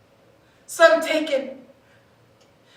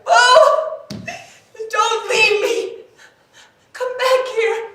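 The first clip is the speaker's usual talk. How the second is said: high, tearful pleading; crying plea; 6 semitones higher than usual. Acted. Lover begging Bo not to leave, crying. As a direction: beg him not to go, voice cracking.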